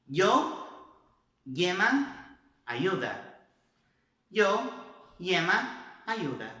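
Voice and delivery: y and ll both as a light i sound; Spain pronunciation. Shown as a demonstration. Teacher models Spanish y and ll. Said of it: "então, na Espanha".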